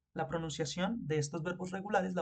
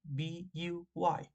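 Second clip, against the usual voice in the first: deletreo lento; much slower than usual. Shown as a demonstration. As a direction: spell B U Y slowly, letter by letter. (deletreando "buy" muy despacio para la clase)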